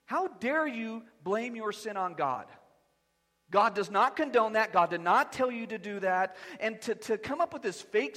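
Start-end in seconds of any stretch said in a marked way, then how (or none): 0.0-6.4 a pastor scolding the husband; stern rebuke. Retold or imitated. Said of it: "I said".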